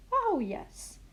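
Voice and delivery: high "Oh yes" of realisation; high surprised "oh yes"; sudden realisation. A narrator's reading. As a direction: catch your own mistake. Grandma realises her mistake.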